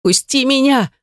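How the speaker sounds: high pleading shout through tears; tearful shout. A narrator's reading. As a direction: scream to be let go, half crying. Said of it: "сквозь слёзы закричала я".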